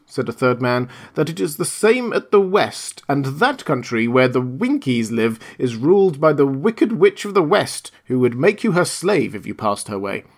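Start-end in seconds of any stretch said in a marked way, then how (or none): 1.1-10.3 lightly raised voice with an ominous hint on the wicked witch; Munchkin warning. Acted. Munchkin warns Dorothy of the west, lightly voiced ominous little man. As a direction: warn her gently but darkly.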